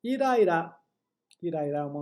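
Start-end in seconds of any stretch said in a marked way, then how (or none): 0.0-0.8 demo word. Shown as a demonstration. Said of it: "Vamos ver a diferença então".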